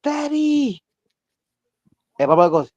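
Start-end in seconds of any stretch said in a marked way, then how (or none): 0.0-0.8 put-on very high, thin little girl crying Daddy; little girl's voice. Telling friends about the spirit's call, high little girl voice. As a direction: imitate a ghostly little girl calling her father. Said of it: "a little girl's voice goes".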